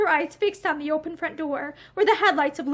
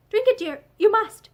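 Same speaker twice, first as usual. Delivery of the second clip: urging; 6 semitones higher, 4 dB louder than usual. A narrator's reading. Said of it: "she urged".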